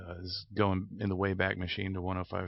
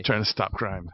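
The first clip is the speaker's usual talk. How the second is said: mock McGruff voice; 7 dB louder than usual. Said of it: "You don't even sound like yourself today".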